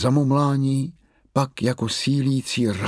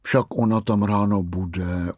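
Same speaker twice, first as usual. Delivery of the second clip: utěšovala. Acted. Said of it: "utěšovala ho Mumínkova maminka".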